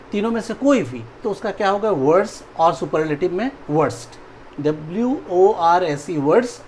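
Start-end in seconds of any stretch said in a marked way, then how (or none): 4.6-6.2 spelled out letters. Shown as a demonstration. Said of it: "teacher spells out worse".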